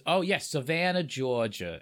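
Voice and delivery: awful attempt at a Savannah accent. Shown as a demonstration. Copying a friend's favourite accent, bad Savannah Southern. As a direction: have a poor go at Georgia Southern. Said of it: "boy, that was awful".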